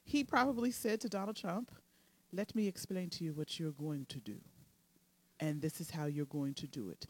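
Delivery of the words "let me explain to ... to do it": a half-hearted Russian-English Putin; terrible accent. Retold or imitated. Co-host imagines Putin instructing Trump, in a terrible Russian-English accent. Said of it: "that's a terrible accent".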